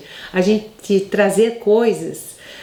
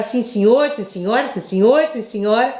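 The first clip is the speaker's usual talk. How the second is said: submissive to boss. Retold or imitated. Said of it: "Você fala".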